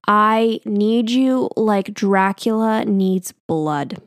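very slow, drawn-out mock love poem; slow, deliberate retold recital; imitated poem recital. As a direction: stretch each word like a solemn poet. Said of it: "he's starts reciting this poem to me".

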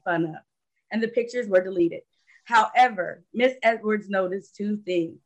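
reading out a guest's biography; measured, formal read-aloud introduction; prepared introduction read. Real, not acted. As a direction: read it like a written tribute.

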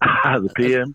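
laughing in surprise. Real, not acted. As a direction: laugh while asking back. Laughs at the nickname.

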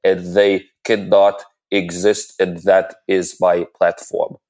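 lightly voiced senator oratory; a hint of a pompous senator, hand pointing; Bernie Sanders impression. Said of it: "Senator Sanders impression".

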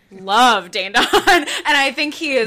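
laughing confession. Real, not acted. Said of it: "I, by the way".

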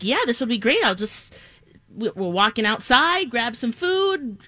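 upbeat fairgoer looking forward to it; excited. Retold or imitated. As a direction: list the treats with rising excitement. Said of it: "I was real excited about".

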